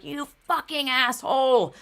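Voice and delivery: mock the curse you never said; imagined insult. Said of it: "trying ... to not be like".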